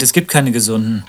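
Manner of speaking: loud, worried insistence. Acted. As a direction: press the point hard and loud. Anxious man quoting his doctor.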